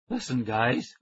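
put-on scratchy, rough boy's voice. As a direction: rasp it out a little. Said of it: "I said in my scratchy voice".

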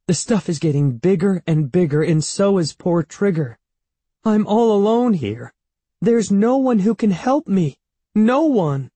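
high, loud, climbing despair; wailing. A narrator's reading. Evan telling Andy he's all alone, wailing. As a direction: build from worry to a high helpless wail. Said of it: "Evan wailed".

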